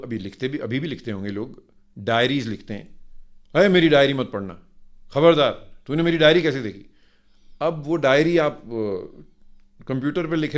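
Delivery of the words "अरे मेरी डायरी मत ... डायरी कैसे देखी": louder, quicker, mock-indignant scolding; mock angry scolding. Someone scolds a snoop who read their diary, mock-angry and loud. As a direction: snap at whoever read your diary.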